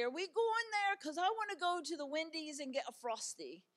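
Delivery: put-on high, excited little-kid voice; daughter's eager voice. Mother voicing her young daughter's excited question. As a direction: chirp it like an eager child. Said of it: "but she would say".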